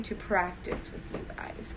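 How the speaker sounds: soft aside, barely voiced; whisper. Real, not acted.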